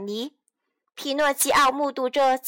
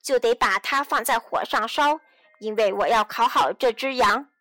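lightly voiced lower-pitched boss; puppet boss refusing; 3 semitones lower than usual. Puppet boss denies Pinocchio mercy, low and firm. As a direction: refuse firmly, a little low.

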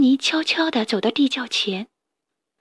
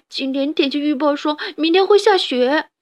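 still crying; 4 semitones higher than usual. Acted. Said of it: "哈布斯边哭边说".

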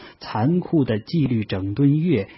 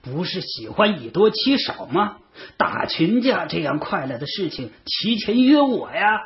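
high-pitched taunting challenge, rising at the end; loud questioning; 7 semitones higher than usual. A narrator's reading. 子时 throwing the guy onto the track, loudly challenging him. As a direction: demand it high, building to a louder finish. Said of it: "大声地喝问".

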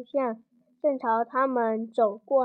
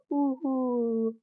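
crying wail. Acted. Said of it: "慈母龙妈妈听到了哭声".

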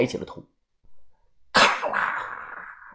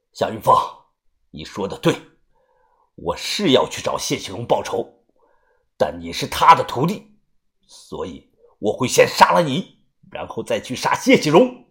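menacing avenger. Acted. Avenger vowing to kill the pupil first, coldly menacing.

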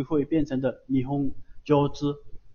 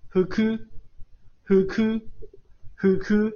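呼哭 read upward, higher voice; rising pitch accent; 5 semitones higher than usual. Shown as a demonstration. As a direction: lift 哭 above 呼 in 呼哭. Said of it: "往上读哈".

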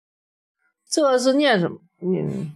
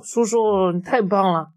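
put-on a child dinosaur calling out, pleased and a little higher; happy call, higher; 6 semitones higher than usual. A narrator's reading. Little dinosaur happily calls to the T-rex, a touch higher. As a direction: cheer uncle on, lightly raised pitch. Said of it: "高兴地喊道".

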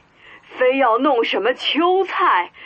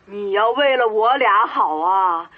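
normal talking voice

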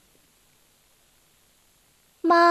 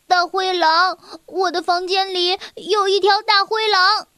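higher-pitched, urgent cry to mum; alarmed child; 4 semitones higher than usual. Acted. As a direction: raise the alarm about a monster. Child alarms sleeping mother. (孩子惊慌地报告)

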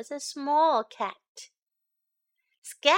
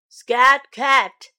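loud shoo at normal pitch; a frog croaking the cat away; "Scat Cat" said much louder; 12 dB louder than usual. Acted.

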